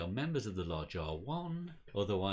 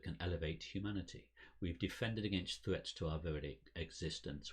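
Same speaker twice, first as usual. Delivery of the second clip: lightly voiced solemn cult leader; formal ceremonial speech; elderly lodge president. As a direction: address the faithful with measured conviction.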